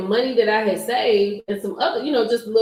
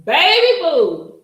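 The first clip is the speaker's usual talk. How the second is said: playful drawl; 9 semitones higher, 6 dB louder, much slower than usual. Real, not acted. Calling to the audience, slow and playful. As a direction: stretch it out sweetly.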